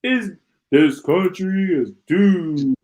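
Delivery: slow, spooky mock movie-trailer line; lightly hammed-up doom voice; mock scary movie voice. Vlogger mocking the president's words, spooky and slow. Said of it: "it's like a scary movie".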